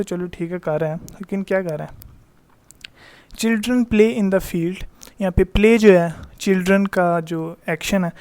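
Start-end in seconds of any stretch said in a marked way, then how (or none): 3.3-4.8 slow, careful read-aloud of the example; teacher dictating an example. Shown as a demonstration. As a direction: read the sentence out slowly for the class. Teacher reads example slowly.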